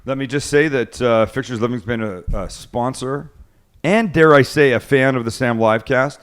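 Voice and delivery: upbeat host reading an ad; sponsor ad read. Acted. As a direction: sell it like a sponsor spot. Reads sponsor ad on show.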